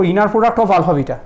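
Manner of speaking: "inner product of alpha beta" read out word by word in English, as a model; careful English reading. Shown as a demonstration. Teacher modelling for a student how to say it, clear English reading. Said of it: "এটাকে আমরা উচ্চারণ করবো".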